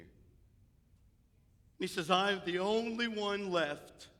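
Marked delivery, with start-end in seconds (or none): 2.1-4.1 higher, drawn-out mock complaint; lightly acted woe, slow and raised; mild mock lament. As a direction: stretch it out like a mild wail. Acts out Elijah's complaint to God.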